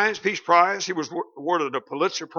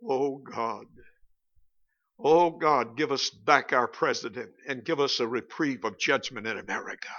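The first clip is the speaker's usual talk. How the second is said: earnest prayer; 6 semitones lower, 7 dB quieter than usual. Retold or imitated. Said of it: "what I pray for practically every morning".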